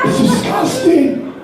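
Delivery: very high, drawn-out squeal of revulsion; disgusted. Acted. Comic reacting to a crusty heel, high drawn-out disgust. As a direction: recoil in hammed-up horror, stretching the word.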